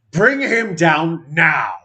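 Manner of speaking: commanding call to attack; staunch shout. Acted. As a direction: order the attack firmly. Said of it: "staunch shout".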